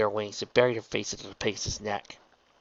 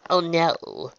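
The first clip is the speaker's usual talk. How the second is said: alarmed; 7 semitones higher, 3 dB louder than usual. A narrator's reading. Trixie fears she broke the wing.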